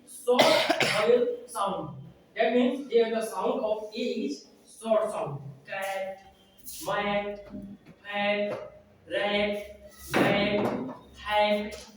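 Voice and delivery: slow, drawn-out classroom explaining; slow phonics lesson voice. Acted. Trainer slowly teaching teachers syllable types, drawn-out and emphatic.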